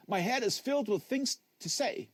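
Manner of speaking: a disembodied voice creeping down the line; eerie phone voice. Acted. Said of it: "the voice on the phone said".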